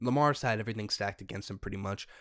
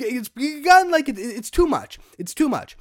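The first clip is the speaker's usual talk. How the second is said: exasperated; 12 dB louder than usual. Real, not acted. Exasperated rant about coverage of a singer.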